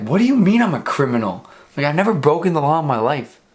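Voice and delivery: mock-offended, voice swooping up; indignant protest. Driver denying he is a criminal, mock indignation. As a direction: protest your innocence in disbelief.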